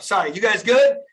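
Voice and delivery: rally the group with pumped-up energy; fired up. Real, not acted. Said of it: "I'm getting all fired up".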